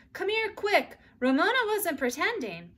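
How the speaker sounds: put-on girl alarmed by arriving guests; urgent. A narrator's reading. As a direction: hurry her mother over. Girl urgently calling mother.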